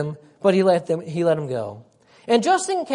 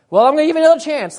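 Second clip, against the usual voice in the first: mock exasperated king; 5 semitones higher, 5 dB louder, much faster than usual. Angry king retold to Balaam.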